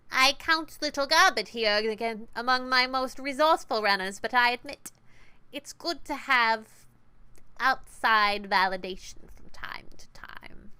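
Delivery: slow, sugary, fading to a whisper; sweet boss voice. Acted. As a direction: purr the compliment, then whisper it. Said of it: "Sweet, nasal, and grinding".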